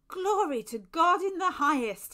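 loud, high cry of praise; exclaiming. A narrator's reading. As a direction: proclaim it fervently, voice lifted high. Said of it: "he exclaimed".

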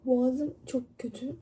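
hoarse, barely there voice; losing her voice, sore throat. Real, not acted. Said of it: "Abi sesim çıkmıyor".

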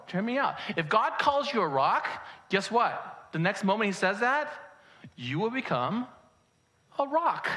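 emphatic sermon delivery with stretched key words; preaching. Real, not acted. Pastor citing Hebrews to congregation, preaching emphatically. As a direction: proclaim scripture with measured force.

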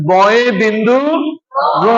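"বয়ে বিন্দু র" in separate, careful parts, pause before র; correct letter name. Shown as a demonstration. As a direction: model "বয়ে বিন্দু র" clearly for a class to repeat. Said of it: "এজন্য সঠিক হলো কি উচ্চারণ?".

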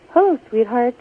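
lifted, bright hello to a stranger; tender greeting. Retold or imitated. Stranger greeting a sad single mother, tender and lifted. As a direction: greet her like a kind stranger would.

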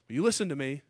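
normal talking voice

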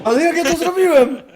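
laughing in disbelief. Real, not acted. Amazed at own play.

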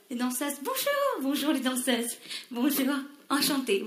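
slow, soft and gallant; drawn-out, courtly hello; charming greeting. Acted. Director greeting the dancers with slow soft charm.

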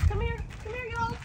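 high coaxing call to pets; calling chickens. Real, not acted. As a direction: coax the hens over in a high voice. Calling her chickens over.

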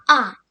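«а» said loud and clear; stressed а. Shown as a demonstration. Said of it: "мають наголос на".

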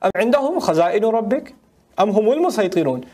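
chanted Quranic recitation, fast and flowing. Acted. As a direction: intone the verse like tajweed recitation.

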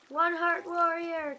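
slow drawn-out battle cry; yelling. Retold or imitated. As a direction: shout it like a war cry. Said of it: "I just started yelling".

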